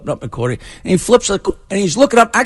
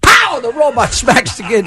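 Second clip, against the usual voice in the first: normal talking voice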